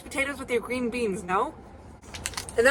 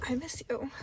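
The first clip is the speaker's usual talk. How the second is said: mock whisper; 5 semitones higher, 6 dB quieter than usual. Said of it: "I'll text Jack and Grace and say".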